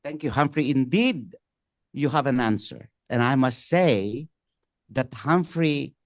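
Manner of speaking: ordinary talk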